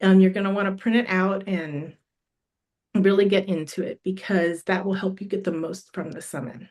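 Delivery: losing her voice, slightly hoarse. Real, not acted. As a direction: voice going a little hoarse. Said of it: "Starting to lose my voice".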